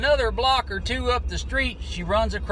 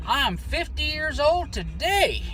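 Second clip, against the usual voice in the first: high, slow, pleased announcement; imitating a tickled woman showing off; retold giddiness; 6 semitones higher than usual. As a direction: lift it and stretch it, mildly giddy. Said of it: "she smiled all giddy again".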